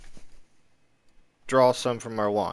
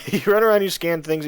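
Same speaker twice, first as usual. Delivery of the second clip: laughing; 6 semitones higher, 5 dB louder, faster than usual. Real, not acted. Laughs off failed scans.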